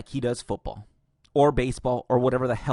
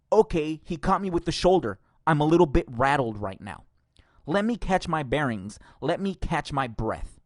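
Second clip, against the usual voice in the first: a touch of mock pundit bluster; mocking Stephen A; 2 semitones higher than usual. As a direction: read his words as a sneering parody. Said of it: "Here's what Stephen A. Smith said".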